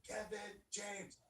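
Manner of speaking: slow, drawn-out formal naming; slow full name. Retold or imitated. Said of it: "it's like".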